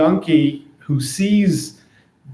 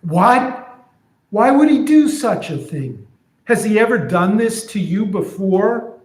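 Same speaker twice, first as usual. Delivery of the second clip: higher, indignant friend; outraged friend; 6 semitones higher than usual. Retold or imitated. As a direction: friend horrified at the beating. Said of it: "So here's what I'm imagining".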